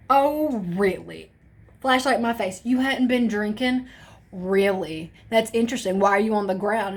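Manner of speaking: mock sarcastic officer; sarcastic cop. Cop mocks the teen on the ground with light sarcasm. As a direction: lay on the sarcasm. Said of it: "he goes".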